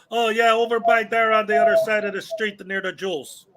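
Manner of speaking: put-on thick Chicago accent, playful. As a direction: answer in broad Chicago accent. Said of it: "but with my Chicago accent".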